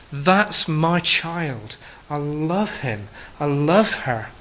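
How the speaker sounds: put-on slow, tender pride over a child; proud loving father. God pointing out his child to the angels, slow and tender. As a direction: savour each word, full of fatherly love. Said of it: "he says".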